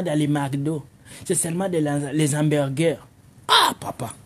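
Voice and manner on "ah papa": high mocking girlfriend voice; a girl teasing, pitched way up. Girl voice mocking African men. (voix de fille moqueuse, très aiguë)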